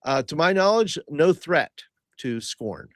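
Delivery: high, loud formal report; courtly adventurer reporting; proud Hobbs. Acted. Player speaks as Hobbs.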